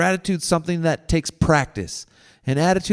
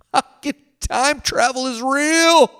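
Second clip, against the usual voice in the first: laughing; 10 semitones higher than usual. Real, not acted. Laughing at his own idea.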